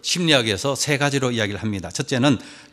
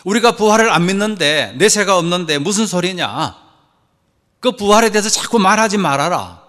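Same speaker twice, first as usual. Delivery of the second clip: lightly voiced indignant Sadducee, pitched up; mildly acted scolding objection, higher voice; objecting Sadducee; 4 semitones higher than usual. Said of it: "사두개인들은 부활을 안 믿는 사람들이잖아요".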